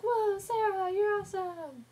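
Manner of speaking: high, loud, acted amazement; Xander. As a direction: gush in a put-on high voice. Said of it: "there's Xander's like".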